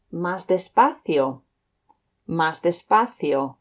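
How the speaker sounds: slow, careful Más despacio; slow demo. Shown as a demonstration. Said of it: "say that a little bit slower".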